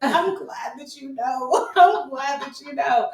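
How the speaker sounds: mock gratitude. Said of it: "I'm like".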